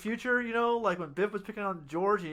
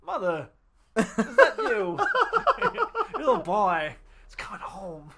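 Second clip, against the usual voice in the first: mock fox voice; 2 semitones higher, 5 dB louder, slower than usual. Voicing the fox mockingly.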